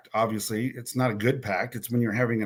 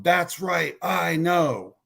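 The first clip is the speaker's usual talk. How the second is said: mild mock scream; 4 semitones higher, much slower than usual. Betrayed husband breaking into the call, mild retold scream. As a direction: pitch it up like an angry shout, held back. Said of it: "he screamed in the phone".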